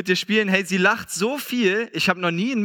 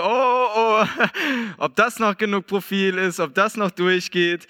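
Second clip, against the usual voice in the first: mock-worried muttering, kicking the tyres; half-joking dread the car won't pass; worried groan; 3 semitones higher, slower than usual. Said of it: "denk so".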